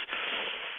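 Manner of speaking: soft, weary exhale; reluctant sigh. Retold or imitated. Closer unconvinced by eager prospect, sighing. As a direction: breathe out in doubt. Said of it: "I was sighing like crazy".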